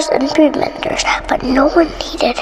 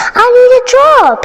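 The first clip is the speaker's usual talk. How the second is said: Dick; 9 semitones higher, 5 dB louder than usual. Acted. Dick's thought voiced.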